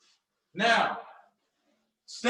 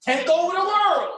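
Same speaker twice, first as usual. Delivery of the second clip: higher, louder cartoon villain voice; the Brain's line; 7 semitones higher, 5 dB louder than usual. Coach quoting the Brain to viewers, in a high loud villain voice. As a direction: boom it out like a cartoon mastermind plotting. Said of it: "what Pinky the Brain used to say".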